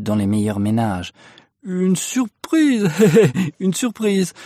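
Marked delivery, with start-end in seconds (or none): 1.6-4.3 high, slow, drawn-out announcement with a laugh; nervous chuckle between the words; sheepish laughing. A narrator's reading. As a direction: laugh to cover your embarrassment. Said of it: "Le marinier riait jusqu'aux oreilles".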